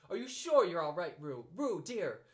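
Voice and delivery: high, loud worried calling; anxious call. A narrator's reading. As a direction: call after him nervously. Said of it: "Kanga was jumping along the bank".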